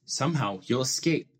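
lively rhyming storybook reading with playful swings; reading to children. A narrator's reading. Dad reading a Seuss book to his child, lively storybook voice. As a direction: read it like a bedtime picture book, bouncing the rhymes.

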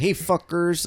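hammed-up Friday movie character yell; mock the guy from Friday; Latino guy impression. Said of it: "I can do the guy on Friday".

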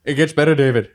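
lightly voiced Robin Williams; hint of a cheery celebrity cameo message. Comic doing a cameo message to David in a light Robin Williams voice.

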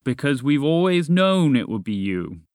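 grand dragon pronouncement; booming. Acted. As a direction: boom it out like a dragon from above. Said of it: "A voice boomed from the air".

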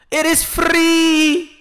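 very slow, high, loud shout; drawn-out shout. Real, not acted. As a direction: stretch every word out.

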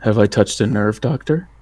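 soft, needling jab; taunting question. Acted. Mark needling the angry doctor, soft taunt. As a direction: lean in and needle her. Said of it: "I'll ask her".

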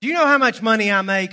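loud, high, fast bragging; mock outraged big shot; arrogant boast. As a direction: pull rank in a huffy rush. Acting out arrogant weight-throwing boasts.

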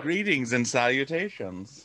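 slow stiff robot voice. Acted. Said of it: "without the robot voice".

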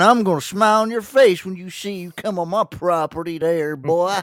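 high southern threatening voice; redneck drawl. Retold or imitated. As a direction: play a gun-toting hick. Redneck gun owner threatening.

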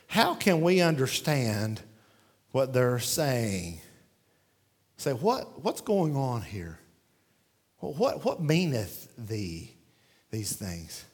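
low, hushed, slow bewildered murmur; a lightly voiced crowd at a loss for words; stunned crowd. Preacher voicing the shocked crowd at Pentecost, hushed and low. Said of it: "They were, like, shocked".

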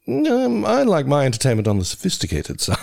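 lightly voiced nebbish New Yorker; a hint of a fussy intellectual; Woody Allen impression. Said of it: "That was meant to be Woody Allen".

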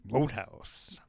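breathy hinted whisper of Roadhouse; teasing whisper. Real, not acted.

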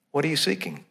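hushed, searching "What are you seeking?"; soft question. Retold or imitated. The Lord questioning believers each morning, hushed. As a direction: ask it gently, inwardly.

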